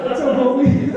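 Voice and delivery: loud, high, buddy-buddy greeting; mock homie greeting. To the stern officer, a loud pal-like greeting. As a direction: play it like greeting an old friend.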